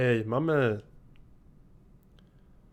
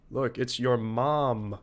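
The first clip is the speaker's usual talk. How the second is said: slow teasing; slower than usual. Shown as a demonstration.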